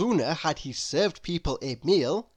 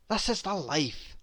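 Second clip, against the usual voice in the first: contented grin; 6 dB quieter than usual. Acted. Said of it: "he grinned".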